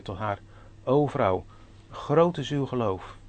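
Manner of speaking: formal pulpit reading voice; scripture reading. Acted. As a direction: read the Scripture out to the congregation with weight. Reads Bible passage aloud.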